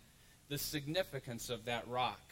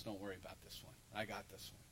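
God speaking; 7 semitones lower, 10 dB quieter, faster than usual. Retold or imitated. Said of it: "But God says to Moses".

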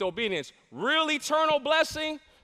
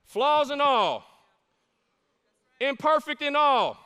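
surrendering cry; 4 semitones higher, 4 dB louder than usual. Acted. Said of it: "not turn and say".

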